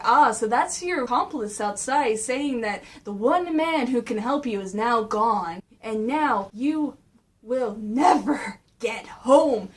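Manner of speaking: lightly voiced gloating villain; Shredder. Shredder taunting the stranded turtles, slowing villainous gloat. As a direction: savor it, slowing right down at the end. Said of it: "so he's going like".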